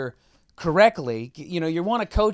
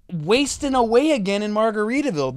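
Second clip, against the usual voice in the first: higher, insistent correction; exasperated correction; 4 semitones higher than usual. Retold or imitated. Host acting out correcting the contestant, exasperated and insistent. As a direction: spell out the right lyric. Acts out correcting the flubbed lyric.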